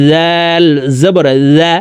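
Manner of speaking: জাল said thin and light; thin letter. Shown as a demonstration. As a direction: keep জাল light, not heavy like জ. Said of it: "দুইটি হরফ দুইভাবে উচ্চারণ করতে হবে".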